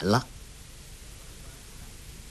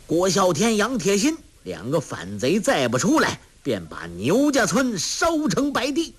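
raised, high-pitched soldier's yell at the house; shouting soldiers; 8 semitones higher than usual. A narrator's reading. Soldiers threatening to burn the village, shouting. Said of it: "口中大叫".

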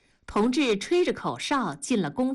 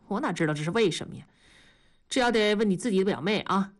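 quick, uninterested brush-off; bored brush-off; much faster than usual. Acted. 丈夫对话题没兴趣，快速敷衍. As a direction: rattle it off to drop the topic. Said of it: "又对这话题没兴趣".

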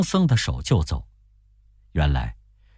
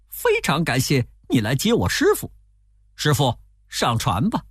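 微微提高的猴王腔; 客气谢过再劝师傅; 孙悟空; 6 semitones higher than usual. A narrator's reading. Narrator voices Wukong. (略高的猴王声音)

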